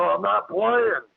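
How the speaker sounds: slow, high-pitched insistence; retold warning. Retold warning to creature in tree.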